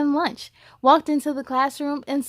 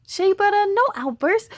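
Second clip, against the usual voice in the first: firm teacher; 8 semitones higher, 3 dB louder than usual. Acted. Teacher scolds outburst.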